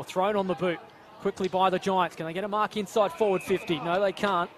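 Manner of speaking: live play-by-play. Real, not acted. Commentator following a kick into attack, animated play-by-play. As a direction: call the attack with mounting urgency.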